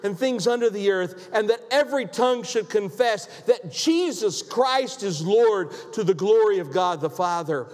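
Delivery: lifted, measured Bible reading; scripture reading. Acted. Preacher reading scripture to the congregation, proclaiming. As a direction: proclaim the verses from the pulpit.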